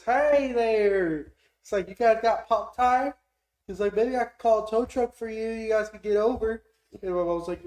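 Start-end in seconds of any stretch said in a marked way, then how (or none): 0.0-1.3 loud, high redneck holler. Retold or imitated. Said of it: "this redneck pulls up". 1.9-3.1 loud, slow, high-pitched redneck. Retold or imitated. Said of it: "this redneck pulls up". 4.0-6.6 loud, high redneck impression. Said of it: "this redneck pulls up".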